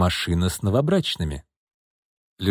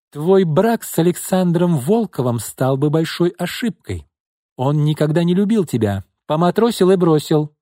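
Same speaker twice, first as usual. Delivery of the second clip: put-on stern older sister; 6 semitones higher, 3 dB louder than usual. Sister scolds sister firmly.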